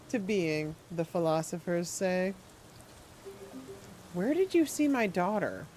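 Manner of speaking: lightly voiced sinister old man, syrupy; a hint of a creepy gentleman. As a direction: purr it like a courteous creep. Voicing creepy NPC.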